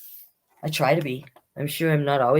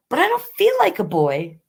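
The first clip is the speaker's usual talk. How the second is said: put-on higher plaintive kid voice; pleading child; 9 semitones higher than usual. Bailey answering Father, higher plaintive child.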